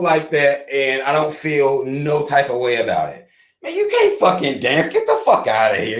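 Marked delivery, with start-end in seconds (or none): 3.6-6.0 high mocking dismissal; mocking judge. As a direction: sneer at the dancer. Mock judging a dancer.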